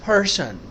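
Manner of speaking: पर्सन with a breathy फ-like P; पर्सन said as फर्सन, P with a puff of air; aspirated P in person. Shown as a demonstration. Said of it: "हम कहते हैं पर्सन". (पर्सन में प के साथ हल्का ह)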